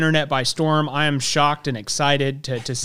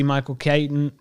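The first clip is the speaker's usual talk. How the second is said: country accent. Real, not acted. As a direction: slip into a country accent on Michael Keaton. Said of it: "butchering the last name".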